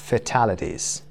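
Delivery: Fatalities said slowly, each syllable clear, falling at the end; careful pronunciation. Shown as a demonstration. (تلفظ شمرده و دقیق Fatalities)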